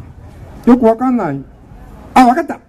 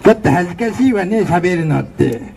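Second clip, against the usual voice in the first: put-on ugly girly voice; 3 semitones lower than usual. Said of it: "めっちゃブスの声やったな".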